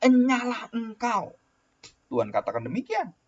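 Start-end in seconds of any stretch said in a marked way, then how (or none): 0.0-1.4 slow, higher, stern banishing; God's command. Acted. Preacher voicing God sending sinners away, slow and stern. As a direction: draw out the dismissal like a judge. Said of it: "Sama kalimatnya".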